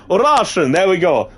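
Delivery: high, loud mock Russian accent; Russian accent attempt. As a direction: try out a comic Russian accent. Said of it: "say something in a Russian accent".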